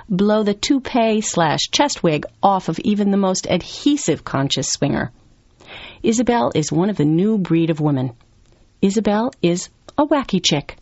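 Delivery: punchy magazine-profile read; lively narration. Acted. Writer introducing an outrageous free-spirited businesswoman, lively narration. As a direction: read it with gossipy relish, stressing the colourful adjectives. Narrates Wacky Chicks excerpt.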